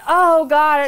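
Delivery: a hammed-up horrified gasp; mock gasp of horror. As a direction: play their shocked insides. Family's horrified reaction.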